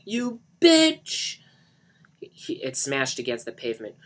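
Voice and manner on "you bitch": very high, loud enraged shriek; spat-out fury. Acted. Johnny curses Lisa while wrecking the house, shrieking furiously. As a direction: shriek the insult with venom. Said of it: "he spat out".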